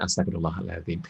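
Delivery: soft, low-pitched istighfar; plain istighfar. Shown as a demonstration. Parent simply seeking forgiveness, said low and soft. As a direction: keep it low and soft, as a prayer. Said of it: "Istighfar kan".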